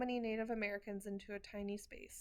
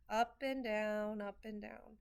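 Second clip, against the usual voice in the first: sliding pitch; slower than usual. Shown as a demonstration. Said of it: "let their words slide up and down".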